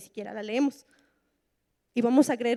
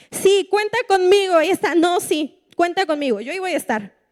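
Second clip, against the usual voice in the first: eager promise; 4 semitones higher, 5 dB louder than usual. Retold or imitated. Unreliable friend promising eagerly.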